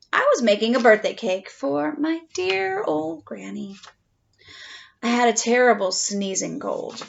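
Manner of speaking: lightly voiced wolf narrator, chatty; a hint of a sly wolf telling his side; storytelling wolf. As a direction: tell it as the wolf, confiding. Reads the wolf's story aloud.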